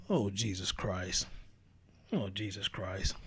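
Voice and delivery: low, slow exasperated sigh of the words; exasperated groan. Real, not acted. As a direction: drag it out, fed up. Exasperated reaction to her words.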